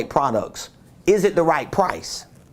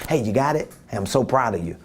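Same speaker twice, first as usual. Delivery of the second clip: lighter, softer make-up voice; soft proud follow-up; 4 semitones lower, faster than usual. Retold or imitated. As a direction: ease off into gentle praise, lightly voiced. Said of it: "twenty minutes later".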